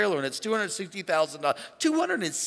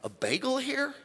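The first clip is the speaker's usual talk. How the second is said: softer, rising bewildered question; a hushed, slow, baffled king going higher; puzzled king; 5 semitones higher, 5 dB quieter, slower than usual. Retold or imitated. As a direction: wonder where the bagel went. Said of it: "The king is like".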